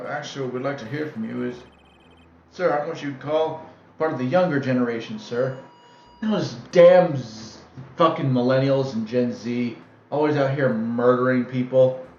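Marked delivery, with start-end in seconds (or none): 6.2-12.1 put-on slow, loud cranky old man rant; grumpy old man. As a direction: grumble like an angry grandpa.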